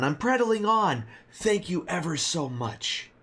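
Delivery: a hint of a fussy old innkeeper; very old man. Old barkeep repeats himself.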